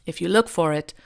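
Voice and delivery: imitating Hugh Grant's British accent; mock posh British accent. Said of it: "Excuse my terrible Hugh Grant slash shitty impersonation".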